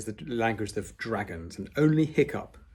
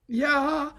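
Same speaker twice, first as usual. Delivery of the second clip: half-hearted yell; 5 dB louder than usual. Acted. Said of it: "without much enthusiasm".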